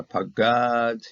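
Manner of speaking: Pagad with the last syllable stressed and held; Pagad, leaning on the ending; stress on final syllable. Shown as a demonstration. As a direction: say Pagad as pa-GAAD, slowly. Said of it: "here's the accenting over here".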